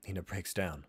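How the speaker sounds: plain reading voice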